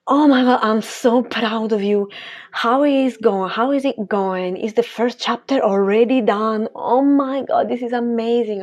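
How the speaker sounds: a lightly acted burst of excitement; mock gushing excitement. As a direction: gush over her book like a proud friend. Retold gushing to mom.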